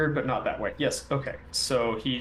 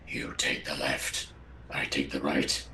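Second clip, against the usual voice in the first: much lower deep voice; Hakim's deep voice; 12 semitones lower, 7 dB quieter than usual. Acted. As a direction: drop the voice way down. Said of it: "Hakim is gonna say".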